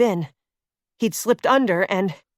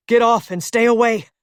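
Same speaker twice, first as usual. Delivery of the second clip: shouting; 2 semitones higher, 4 dB louder than usual. Acted. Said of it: "he shouted at Claire".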